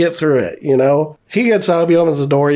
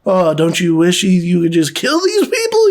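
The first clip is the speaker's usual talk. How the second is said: put-on creepy old guy. Old guy goading the angry boyfriend, mock creepy. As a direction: imitate a creep egging someone on. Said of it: "talking to him super creepy".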